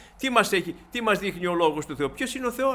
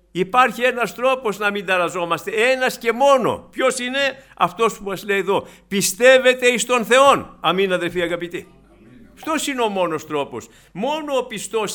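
loud preaching; 3 semitones higher, 6 dB louder than usual. Real, not acted. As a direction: proclaim it to the church, slowing on the key words. Preacher's climactic call to faith. (κήρυγμα με δυνατή, αργή φωνή)

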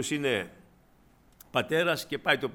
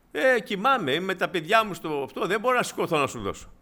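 higher, louder grumbling refusal from a man woken up; irritated refusal; 5 semitones higher, 4 dB louder than usual. Acted. Neighbour shouting back through the door that he's asleep. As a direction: protest that you're asleep with the kids.

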